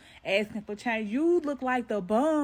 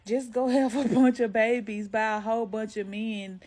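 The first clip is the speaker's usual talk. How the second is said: mocking a commenter; 4 dB louder than usual. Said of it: "Here's somebody gonna tell me".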